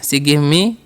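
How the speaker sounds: very slow, word by word English; slow dictation. Shown as a demonstration. Teacher to students, slow dictation. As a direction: spell it out slowly for the class.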